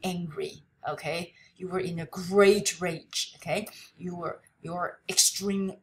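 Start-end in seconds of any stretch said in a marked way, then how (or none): none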